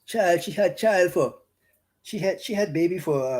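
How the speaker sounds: lightly broadened Bahamian English; Bahamian vernacular. Shown as a demonstration. Preacher retelling scripture as Bahamians would say it, Bahamian vernacular. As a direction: say it the local Bahamian way. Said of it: "that's how we say it locally in the Bahamas".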